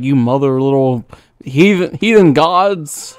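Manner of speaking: a hint of a raging dragon, slowing at the end; angry dragon voice. Streamer voicing the dragon cursing him, mock rage. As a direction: growl out the insult like a chained beast. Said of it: "He's like".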